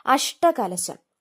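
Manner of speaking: അഷ്ടകലശം said very slowly, falling at the end; drawn-out word. Shown as a demonstration. Teacher announcing the word for students to note, very slowly. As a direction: stretch out അഷ്ടകലശം syllable by syllable. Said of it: "ആ ടാ ഏതാന്ന് നോക്കണം".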